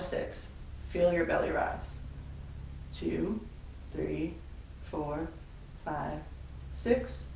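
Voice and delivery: measured, softening breathing-exercise voice; guided meditation. Acted. Instructor leads class through a counted breath, guided meditation. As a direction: guide them calmly through each breath, leaving pauses.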